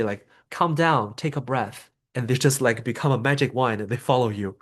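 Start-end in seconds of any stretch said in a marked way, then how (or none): 0.5-1.9 dismissive calm down. Shown as a demonstration. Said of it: "We don't want to say".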